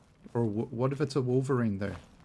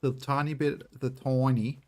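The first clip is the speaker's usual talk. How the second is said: accidental Australian accent; 3 semitones higher than usual. Real, not acted. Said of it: "why'd I sound so very Australian there?".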